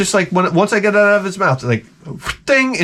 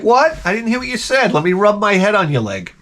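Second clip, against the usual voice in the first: innocent dog voice; 4 semitones higher than usual. Retold or imitated. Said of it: "He's like".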